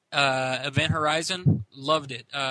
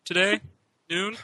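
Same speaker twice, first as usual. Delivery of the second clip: preppy friend voice; 4 semitones higher than usual. Retold or imitated. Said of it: "from the voice that you just did".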